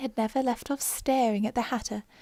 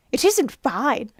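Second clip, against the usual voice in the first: Hatter; 3 semitones higher, 6 dB louder, slower than usual. Acted. Hatter answering the king at trial.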